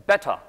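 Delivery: "Better" with the t popped hard; British "Better" with a true t. Shown as a demonstration. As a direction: burst the t in "Better", British style. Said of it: "T 발음은 터트려".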